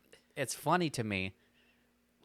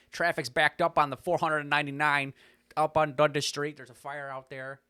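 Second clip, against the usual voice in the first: loud, higher radio announcer read; radio traffic announcer; 4 semitones higher, 7 dB louder than usual. Retold or imitated.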